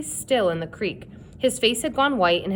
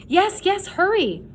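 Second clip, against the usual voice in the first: high, loud frantic urging; urgent shout; 11 semitones higher, 3 dB louder than usual. A narrator's reading. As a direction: hurry him out in panic. Urging friend out of water.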